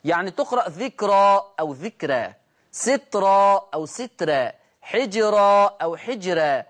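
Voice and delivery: slow, each word said twice, first with a heavy r and then with a thin r, as in ذكرى أو ذكرى; slow tafkhim and tarqiq contrast; heavy then light r. Shown as a demonstration. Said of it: "هكذا تقرأ بجواز التفخيم والترقيق".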